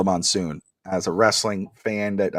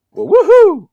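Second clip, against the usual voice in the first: sarcastic woohoo; 8 dB louder than usual. Real, not acted. Sarcastic cheer at letdown.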